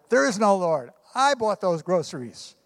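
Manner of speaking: smug neighbor crowing over his trick; mock shout. Atheist neighbor gloating at the old lady, mock shout.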